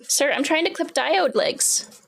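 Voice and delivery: slow, high mock-formal scolding; mock stern. Real, not acted. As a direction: slowly scold the dog with fake formality.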